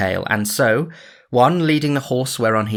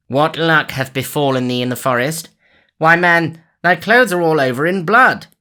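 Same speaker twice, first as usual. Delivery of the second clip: louder and higher, growing alarm; cried out; 7 semitones higher, 6 dB louder than usual. A narrator's reading. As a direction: shout at the bloodied man. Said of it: "cried the sheriff".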